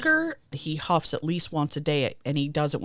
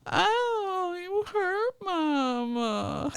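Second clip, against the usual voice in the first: high, drawn-out mock wail; badly hurt mama, pretend sobbing way up high; fake crying; much slower than usual. Owner pretends to be hurt to test cat, whiny fake cry.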